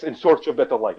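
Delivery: put-on light Russian accent, loud. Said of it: "I say anything that's the exact word in a Russian accent".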